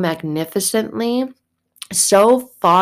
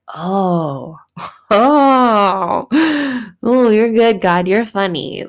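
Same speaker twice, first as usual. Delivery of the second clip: laughing and louder, delighted disbelief; 3 semitones higher, 4 dB louder, slower than usual. Acted. Believer laughing in delighted disbelief at God. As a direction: chuckle at how good it turned out. Amazed laugh at God's work.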